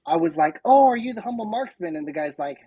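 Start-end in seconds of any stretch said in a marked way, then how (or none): 0.6-2.0 re-enacted eager greeting, pitched high; higher-pitched, hopeful retold question. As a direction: ask brightly, as if recognizing someone. Retells mistakenly greeting a stranger.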